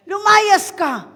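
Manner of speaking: loud, slow, drawn-out casting-out; slow, loud command to the demon. Shown as a demonstration. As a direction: stretch each syllable to force it out. Repeated slower command.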